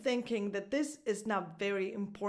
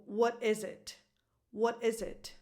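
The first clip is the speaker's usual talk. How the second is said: "what is it" with IS stressed. Shown as a demonstration. Teacher models the question for learners, stress on IS. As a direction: lean on "is", let "it" drop away. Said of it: "The stress goes on is".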